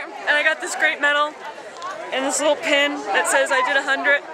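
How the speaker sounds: overwhelmed at the finish, talking through emotion; emotional. Real, not acted. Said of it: "I'm a little emotional right now".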